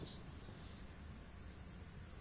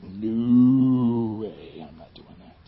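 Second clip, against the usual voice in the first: Jonah refusing; 8 semitones lower, much slower than usual. Retold or imitated. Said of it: "Jonah's like".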